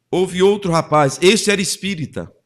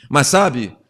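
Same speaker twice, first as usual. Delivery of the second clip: ordinary talk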